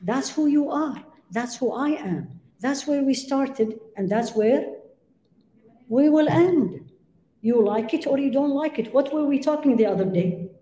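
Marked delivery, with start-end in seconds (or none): 0.0-8.9 slow earnest advice. Retold or imitated. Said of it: "They said".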